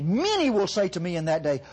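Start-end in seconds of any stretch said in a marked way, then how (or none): 0.0-0.5 "Many" leaned on at the start; emphatic "Many", set apart from the rest; stress on Many. Shown as a demonstration. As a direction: hit the word "Many" firmly. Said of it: "I want to emphasize the word many".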